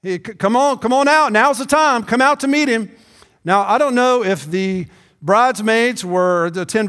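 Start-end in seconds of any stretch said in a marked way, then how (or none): 0.0-2.9 urgent calling. Retold or imitated. Runner back at the bride's house calling the bridesmaids out, urgent call. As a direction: wake everyone up, hurry them out. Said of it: "to say".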